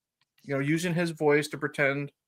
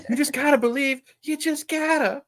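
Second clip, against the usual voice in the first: much higher, naive sing-song believer voice; mocking childlike Ozzy; 10 semitones higher than usual. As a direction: play up a wide-eyed childlike believer. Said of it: "the childlike, innocent Ozzy".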